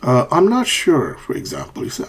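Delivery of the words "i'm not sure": higher-pitched, unsure "not sure"; uncertain fall-rise. Shown as a demonstration. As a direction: let "not" peak high and dip on "sure". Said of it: "falling and rising intonation for uncertainty".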